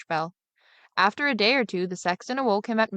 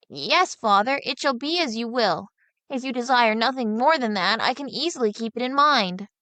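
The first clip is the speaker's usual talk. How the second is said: put-on higher, lightly puzzled boy's voice; boy mocking what others always say, higher and puzzled; simple younger son; 4 semitones higher than usual. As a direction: play the naive lad wondering aloud.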